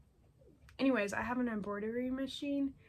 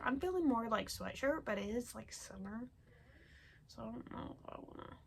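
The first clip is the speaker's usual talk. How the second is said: soft murmuring; 3 semitones higher, 6 dB quieter than usual. Real, not acted. Quiet musing.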